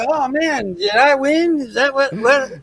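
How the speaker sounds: high, falsely innocent "did I win"; mock surprised. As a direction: fake amazement at his own victory. Dad feigning surprise at winning.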